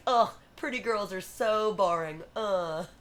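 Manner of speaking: lightly mocked jaded prince; a touch of theatrical boredom; bored yawning imitation. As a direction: groan it like a mildly bored prince. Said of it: "he's yawning".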